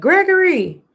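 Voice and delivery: mild retold shout; retold scream. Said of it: "Glenn literally screamed".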